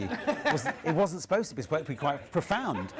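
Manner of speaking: laughing through the words; giggling while talking. Real, not acted. Host laughs at audience reaction.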